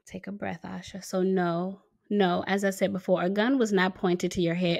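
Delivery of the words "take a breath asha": calming herself. Real, not acted. Calming herself after a sigh.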